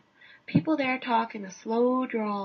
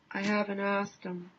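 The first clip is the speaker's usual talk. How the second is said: deadpan musher; 3 semitones lower than usual. Acted.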